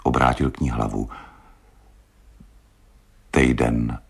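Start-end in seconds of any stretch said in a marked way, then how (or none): 3.3-4.0 sad. Acted. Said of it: "řekl smutně".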